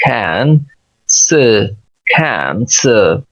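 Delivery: "can" stressed, then a short schwa "स"; stressed first syllable. Shown as a demonstration. Teacher breaking a word into syllables, stressed "can". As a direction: split it into a strong "can" and a light "स". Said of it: "इस पे stress भी है".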